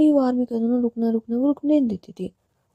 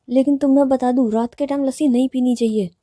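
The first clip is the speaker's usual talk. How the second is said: raised voice; 3 semitones higher, 4 dB louder than usual. Acted. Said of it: "तो चिल्ला क्यों रही हो?".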